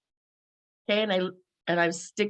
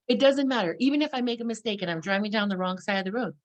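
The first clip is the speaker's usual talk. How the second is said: ordinary talk, nothing marked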